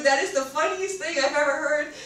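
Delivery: high, very loud mock hysterics; hysterical. Praising friend's supposed impression, hysterical. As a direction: exclaim it as if helpless with amusement.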